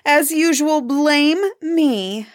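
high, aggrieved wail of self-pity; tearful complaint. A narrator's reading. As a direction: play the wife tearfully blaming, pitched well up. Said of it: "the woman burst into tears".

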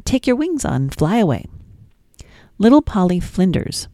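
sing-song, lilting nursery rhyme reading; gentle storytime reading; reading rhymes to children. Acted. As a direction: read it like bedtime rhymes for a toddler. Reads nursery rhymes to toddler.

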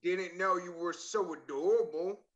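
slow, lightly teasing read, lifting at the end; flirty text reading. Acted. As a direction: read it like a mildly flirty suitor. Reading flirty message in character.

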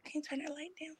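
very soft, breath-only request; hushed side request; whispered aside. Real, not acted. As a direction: whisper it aside to someone nearby. Quiet aside off the game.

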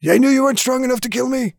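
high, quick taunting jeer; needling, sing-out taunt; taunting villain. Acted. Game master voices taunting villain.

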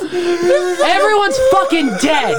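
laughing. Real, not acted. Group in fits of laughter.

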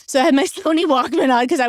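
real chuckle breaking into speech; amused laughing. Real, not acted. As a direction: talk fast through a self-amused laugh. Laughing at aging herself.

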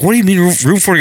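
mock bewildered; retold confusion. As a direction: sound confused by the setup. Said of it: "He's like".

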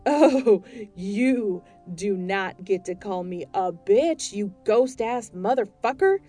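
loud, slow, indignant shouting; outraged woman shouting down ghost; furious retort. Acted. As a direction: put him in his place, loudly.

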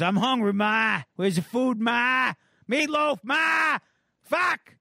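a spoiled brat hollering at his mother; whiny teen yelling. Retold or imitated. Teen son yells at mom for dinner, bratty shouting. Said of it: "And he goes".

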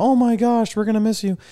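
a hammed-up sad goodbye; mock dismay. The waiter hearing they leave tomorrow, in high hammed-up dismay.

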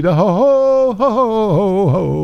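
high mock witch cackle. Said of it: "the Wicked Witch of the Hose".

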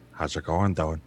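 rough low tough-guy catchphrase. Shown as a demonstration. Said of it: "there's the voice".

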